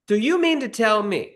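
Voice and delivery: high, incredulous mock outrage; hammed-up fury at the director's nerve; mock outraged rant. Writer retelling his fury at the director, high mock outrage. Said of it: "I was so mad".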